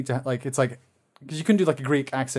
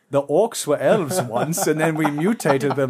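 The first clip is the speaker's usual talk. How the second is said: lightly voiced wizard villain, slow and measured; a slow, mock-ominous film villain; a hint of an evil wizard's speech; Saruman; 2 semitones higher, 4 dB louder, slower than usual. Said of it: "where Saruman says".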